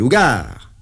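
high loud bark; furious; angry command. Acted. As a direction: order him to talk or else. Patron threatens.

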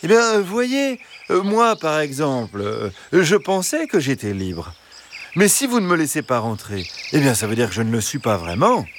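high, reasoning fox voice; cunning fox. Acted. Fox arguing about his freedom, high and sly. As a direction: trap them with logic as the fox.

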